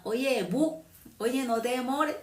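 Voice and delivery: high, clipped-short coastal speech; coastal Colombian accent. Retold or imitated. Preacher contrasting costeños' short speech, light coastal accent. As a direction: imitate the costeño way, chopping words. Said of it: "en la costa habla".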